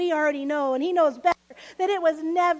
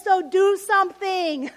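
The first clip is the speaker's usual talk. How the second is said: demanding; 3 semitones higher, 6 dB louder than usual. Retold or imitated. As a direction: push him to act. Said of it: "So what she's saying is".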